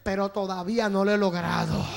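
Ouija's voice dropping low; Ouija answering. Retold or imitated. Ouija admits failure to the youth, low and subdued. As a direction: sink down into the admission. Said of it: "la Ouija me contestó".

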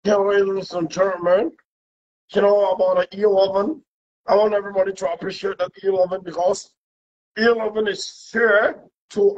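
mock political speech. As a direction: play a pompous politician at a rally, lightly. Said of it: "this is how to talk".

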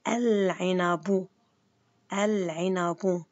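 العنب said very slowly ending in -bu; al-'inabu, stretched; slow with damma ending. Shown as a demonstration. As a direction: sound out العنبُ for the class. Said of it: "أنا ما بصير أحكي العنبون".

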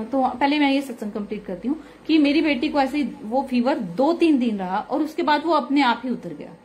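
ordinary delivery

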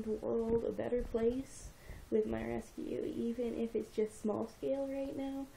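real tears she tries to talk through; quietly crying while speaking to the camera; teary. Real, not acted. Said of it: "I'm crying on camera".

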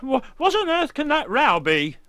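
high, loud burst of disbelief; startled outburst. Acted. Corny asks what that terrible row is, startled outburst.

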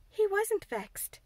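Mary contradicting Martha, slowly; Mary insisting. Acted. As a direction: correct her firmly. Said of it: "said Mary".

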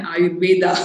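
"Ayurveda" ending in an open A; South Indian pronunciation. Shown as a demonstration. Teacher showing South Indian "Ayurveda", with added final A. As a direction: sound the final vowel of "Ayurveda". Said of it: "we like adding an R".

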